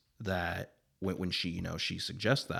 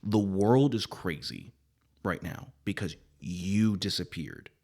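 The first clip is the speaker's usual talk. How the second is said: solemn spirit messenger. Acted. Voices Zeb's speech to Johnny.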